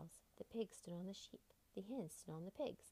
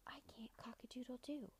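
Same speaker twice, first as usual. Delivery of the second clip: breathy hushed whisper; 4 semitones higher, 8 dB quieter than usual. A narrator's reading. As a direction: whisper it sadly and softly. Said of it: "Rooster whispered".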